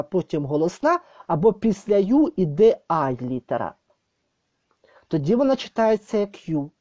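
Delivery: ordinary talk, nothing marked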